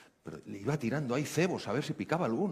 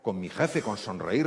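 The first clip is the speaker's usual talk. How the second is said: agitated disbelief; 3 semitones higher than usual. Retold or imitated. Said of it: "empezó a ponerse súper alterada".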